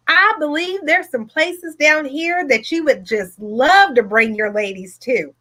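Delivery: imitated Southern woman's voice; lightly acted Southern accent. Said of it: "I can do a few accents".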